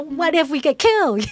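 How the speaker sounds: high, loud fearful question; panicky worry. Retold or imitated. Joshua fearing the land of giants, high and panicky. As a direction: fret like facing giants. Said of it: "you know, uh".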